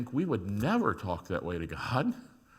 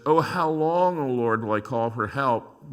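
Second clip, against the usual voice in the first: crying out to God; 2 semitones higher, 7 dB louder than usual. Acted. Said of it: "But then comes the accusation".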